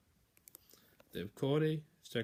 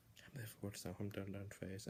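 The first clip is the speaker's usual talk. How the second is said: much softer, muttered to himself; self-reproach; 2 semitones lower, 11 dB quieter than usual. Real, not acted. Scolding himself for a repeated slip, muttered. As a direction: grumble at yourself quietly.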